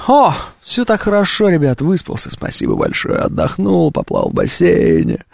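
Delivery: exaggerated, breathy self-satisfied boast; smug contentment. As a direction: gloat about a perfect day. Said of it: "А когда, типа". (самодовольно, с придыханием)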